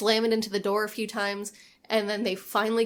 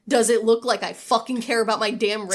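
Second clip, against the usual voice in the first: louder, exasperated snap; mock angry retort; 6 dB louder than usual. Trapped man snapping at the crew, louder and fed up. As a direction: bite back at them, fed up.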